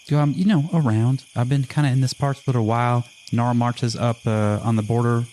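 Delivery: lightly voiced backwoods half-elf; easygoing logger's son. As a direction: chat about your roots as an easygoing newcomer. Plays Junior answering questions in character.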